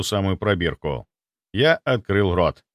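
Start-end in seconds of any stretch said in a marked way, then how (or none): none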